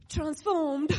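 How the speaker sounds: emphatic exclaim. Shown as a demonstration. Preacher contrasting wrong phrasing, loud "transformed". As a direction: punch the word out loud. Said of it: "Not we come into his kingdom".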